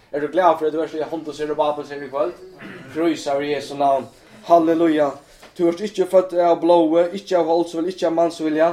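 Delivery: loud fervent sermon cry; shouted preaching. Real, not acted. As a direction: shout it to the congregation. (ropende forkynnelse)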